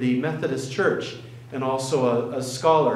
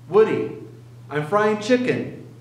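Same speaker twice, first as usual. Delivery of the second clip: mother's gentle words; 5 semitones higher than usual. Retold or imitated. Mother to weeping son, gently lifted. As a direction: speak as the old mother, simply. Elderly mother voiced in story.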